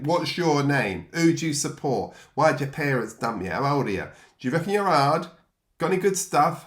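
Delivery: loud, high barrage of jeering questions; rowdy kids shouting. Retold or imitated. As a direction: hurl the questions at the new boy like a mob. Unruly kids firing questions at newcomer.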